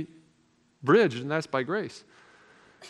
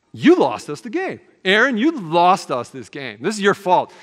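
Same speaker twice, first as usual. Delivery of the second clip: angry accusation; 2 semitones higher, 5 dB louder than usual. Retold or imitated. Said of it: "And I was so angry".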